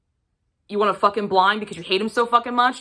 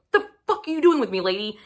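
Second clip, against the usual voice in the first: exasperated outburst; 2 semitones higher, faster than usual. Retold or imitated. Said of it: "And you're like".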